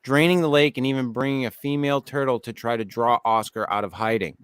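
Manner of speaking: measured documentary-style narration; even, scripted storytelling delivery; article read-aloud. Acted. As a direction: read the write-up to your co-hosts. Reads a list article aloud.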